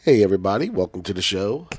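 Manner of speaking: hoarse, sick voice; talking through a head cold. Real, not acted. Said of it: "Poor guy's sick voice".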